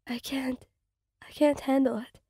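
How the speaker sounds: whispered, then barely voiced; panicked whisper. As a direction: choke the words out, overwhelmed. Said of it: "your voice barely above whisper".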